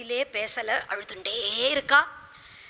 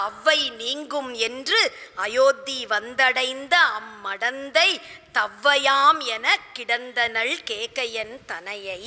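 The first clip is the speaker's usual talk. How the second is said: slow, measured Tamil verse recital; stately, slow poetic delivery; verse recitation; slower than usual. Acted. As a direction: recite the classical poem with drawn-out words.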